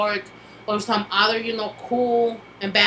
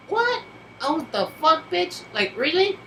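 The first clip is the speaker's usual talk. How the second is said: high, indignant disbelief; incredulous outrage; 7 semitones higher than usual. Retold or imitated. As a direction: sneer in shocked disbelief. Reacting to annoying Facebook post.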